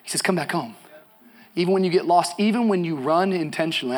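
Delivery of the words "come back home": soft, low invitation; tender call. Acted. God calling the lost back, tender and hushed. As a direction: gently call a wanderer back. God calls the wanderer home, softly.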